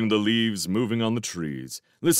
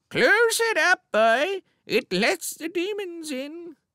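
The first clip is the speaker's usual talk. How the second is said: put-on quavering, quivering old voice, very high-pitched. In a story, a character imitates a woman's saying; aged, quivering voice. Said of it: "He put on an aged, quivering voice".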